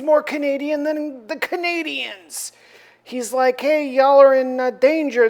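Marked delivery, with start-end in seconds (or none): 3.6-5.3 calling out warning. Retold or imitated. Beast warning the ships.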